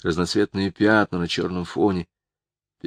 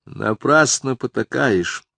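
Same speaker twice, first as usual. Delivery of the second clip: displeased remark; 4 semitones higher, slower than usual. Acted. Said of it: "заметила Ада недовольно".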